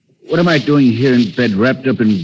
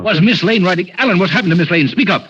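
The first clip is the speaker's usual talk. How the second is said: raised, pressing questions; urgent demand; 6 semitones higher than usual. Acted. Cranston presses his butler about Miss Lane urgently. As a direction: force the answer out of him.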